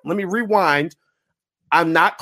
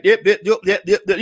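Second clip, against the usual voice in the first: clipped T.I. impression; faster than usual. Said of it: "he kinda cuts his words off like".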